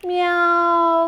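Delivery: a soft mock meow; kitten meow. Teacher showing kids the cat's sound, mock meow. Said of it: "ഒരു പ്രാവശ്യം കൂടി പാടി നോക്കാം".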